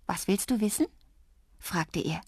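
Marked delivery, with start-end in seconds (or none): 0.1-0.9 gentle, lightly tender question; kind and friendly. A narrator's reading. Drups inviting the girl's questions, gently friendly. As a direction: offer it kindly, no more teasing. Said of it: "sondern so lieb und freundlich".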